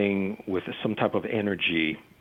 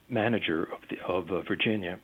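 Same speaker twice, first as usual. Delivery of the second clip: hoarse, fading voice; strained, hoarse and quiet; losing voice; 4 dB quieter than usual. Real, not acted. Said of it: "losing my voice here".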